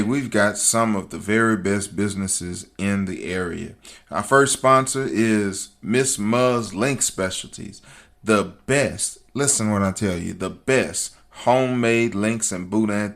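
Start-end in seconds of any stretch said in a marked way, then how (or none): none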